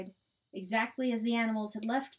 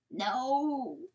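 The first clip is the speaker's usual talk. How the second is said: long, higher wailing no; anguished denial; 4 semitones higher than usual. A narrator's reading. Coyote told his wife is dead, anguished denial. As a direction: wail it in refusal.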